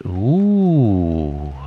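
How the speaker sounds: loud drawn-out ooh, rising and falling; long swooping "ooh". A narrator's reading. Piglet flies up in the air, long swooping ooh. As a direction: whoop it like being tossed in the air. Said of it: "as he went up in the air, he said".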